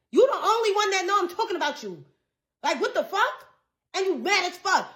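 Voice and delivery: high, quick indignant comeback; mad, incredulous. Retold or imitated. Answering the friend who felt called out, mad. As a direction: fire back high-pitched and exasperated. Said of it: "I was so fucking mad after that".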